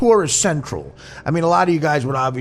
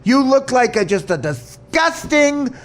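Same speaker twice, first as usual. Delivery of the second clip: imitating the gay guy; 8 semitones higher, slower than usual. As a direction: ham up a sneering, dragged-out put-down. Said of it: "I'll do the gay guy".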